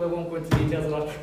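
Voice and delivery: usual speaking voice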